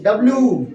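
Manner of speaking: "डब्ल्यू" with the last oo held; drawn-out letter. Shown as a demonstration. Teacher leading students' letter drill, drawn out. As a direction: stretch the ending of "डब्ल्यू". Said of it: "अपन उसको खींचो".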